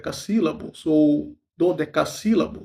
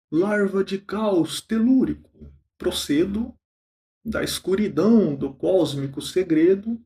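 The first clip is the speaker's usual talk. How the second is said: poem recitation. Acted. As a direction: recite the stanza, pausing after each line. (declamação pausada de poema)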